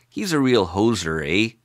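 put-on light Canadian accent on a jokey slang example; playful Canadian accent, leaning into the eh. Explaining hoser to plugin viewers, in a Canadian accent. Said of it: "said in my best Canadian accent".

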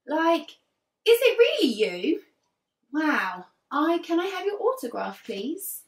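starry-eyed fan asking for autograph; starstruck fan. Acted. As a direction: gasp it out in awe.

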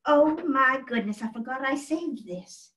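surprised. Acted. Finds a forgotten keepsake.

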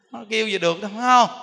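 usual speaking voice

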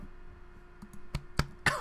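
hoarse unvoiced coughs; strained choking coughs; coughing fit. Real, not acted. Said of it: "I'm so sorry".

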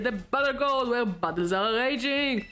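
lightly hammed-up contest announcer; showy game host. Host sets the challenger a search, lightly showy. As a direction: present the challenge, stretching the final go.

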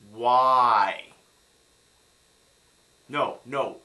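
loud, drawn-out exasperation; long wailed question at full volume; exasperated cry. Real, not acted. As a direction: belt it out in frustration. Exasperated at the fake accent.

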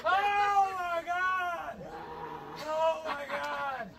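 cold shock cries. Real, not acted. Cold plunge shock, repeated cries.

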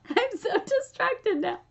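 real laughter breaking in; laughing. Real, not acted. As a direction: laugh at your own distraction. Laughing at herself mid-video.

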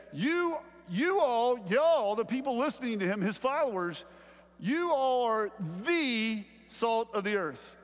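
you all are the salt of the earth, slow and ringing; slow, big pulpit voice, leaning on every word; slow emphatic proclamation. Shown as a demonstration. Preacher proclaiming Jesus's words to the congregation, slow and emphatic. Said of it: "watch this".

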